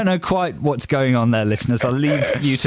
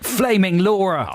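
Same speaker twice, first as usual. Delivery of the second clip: slow, raised mock exclamation; imitated shout; 5 semitones higher, slower than usual. Co-host echoes the manager's catchphrase, mock shout. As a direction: stretch it out as a mock curse. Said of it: "also used to shout".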